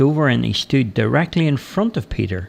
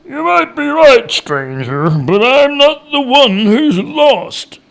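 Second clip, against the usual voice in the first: high, drawn-out holler; shouting back; 12 semitones higher, 5 dB louder, slower than usual. A narrator's reading. Woodcutter shouting back at the departing stranger, shouting. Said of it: "Peter shouted back".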